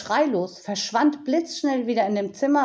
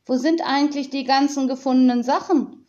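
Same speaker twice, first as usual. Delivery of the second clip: curious question; 5 semitones higher, 4 dB louder, faster than usual. Acted. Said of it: "fragte Tiziana neugierig".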